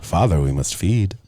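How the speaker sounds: slow, solemn vampire-cat plea; lightly voiced undead child addressing Father. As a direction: intone it slowly, like a creepy servant.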